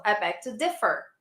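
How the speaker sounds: "differ" with the first syllable stressed. Shown as a demonstration. Teacher repeating the stress point, DIF stressed in "differ". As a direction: punch DIF, let -fer drop in "differ". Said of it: "So the stress is in di".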